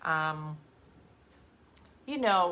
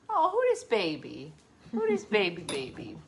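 cooing pet talk. Real, not acted. Cooing baby talk to the dog.

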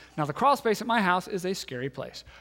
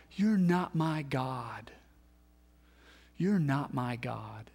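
slow, hushed whisper of despair; whispered cry; 3 semitones lower, 4 dB quieter, slower than usual. Retold or imitated. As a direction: breathe it out, broken and quiet. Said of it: "and we cry out".

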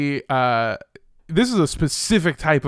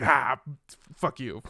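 much softer, low, half-swallowed curse; muttered curse; 6 semitones lower, 6 dB quieter, slower than usual. Retold or imitated. Driver cursing at parking enforcement, muttered low and soft. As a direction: grumble it under your breath. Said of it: "I'm just like".

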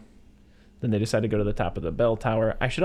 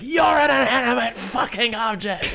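very high, slow, drawn-out mock yell; high-pitched imitation of an angry outburst; mock furious retort; 14 semitones higher, 4 dB louder, slower than usual. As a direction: stretch out a hammed-up screech of rage. Acts out husband's furious retort.

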